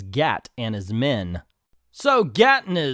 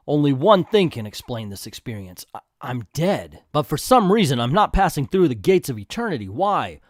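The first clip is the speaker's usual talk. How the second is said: dramatic story reading. A narrator's reading. Dramatic narration with bewildered Jim.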